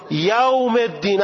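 یوم الدین in a Persian accent; Persian-accented یوم الدین, held up high; non-Arabic accent. Shown as a demonstration. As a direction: stretch یوم into "yowm", Persian style. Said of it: "اصلاً لهجهٔ عربی نیست".

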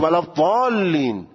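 ضالین as the other camp recites it; ضالین, long-drawn, in the rival reading; opposing reading of ḍād. Shown as a demonstration.

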